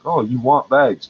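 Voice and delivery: slow, mock-sweet cashier offer; lightly imitating a pushy cashier. Vlogger imitates cashier pushing bags, mild mockery. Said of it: "they always try to sell me bags".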